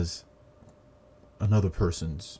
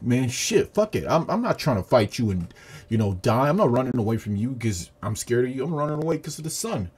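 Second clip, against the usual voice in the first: louder, indignant retold excuse; defensive retort; 4 semitones higher, 4 dB louder than usual. Demon excusing its escape to Tanjiro, indignant. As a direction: protest it loudly, pitch climbing.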